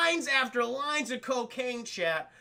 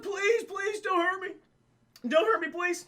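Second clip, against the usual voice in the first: much higher pleading whine; mock begging; 9 semitones higher than usual. Cop begging Darby not to hurt him, high pleading whine. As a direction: beg for your life.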